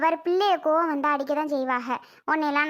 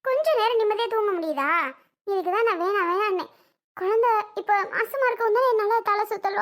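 higher-pitched, aggrieved complaining; indignant protest; 4 semitones higher than usual. Acted. Worn-out mother defends herself to her scolding husband, indignant. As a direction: argue back, pleading your case. Wife argues back at husband.

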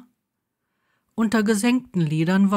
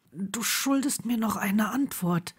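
rough voice; 3 semitones higher, 5 dB quieter than usual. A narrator's reading. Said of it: "sagte Neville mit rauer Stimme".

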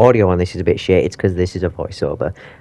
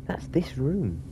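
softer whispered aside; 5 semitones higher, 10 dB quieter, much slower than usual. Real, not acted. Player hiding from the animatronic, whispering. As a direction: whisper so he isn't heard.

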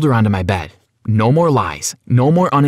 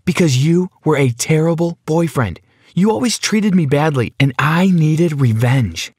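higher, bitter accusation; hateful; 4 semitones higher than usual. Acted. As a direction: throw the blame at him with hatred. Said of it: "Sarah looked at me with hatred".

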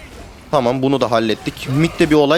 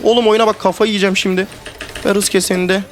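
excited; 4 semitones higher than usual. Real, not acted. Player thrilled mid-game.

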